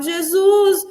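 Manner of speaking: high, tearful plea, held back a little; a desperate plea to be taken along; pleading cry. Retold or imitated. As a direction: beg Jesus not to leave you. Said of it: "E eu gritava, eu chorava, eu falava".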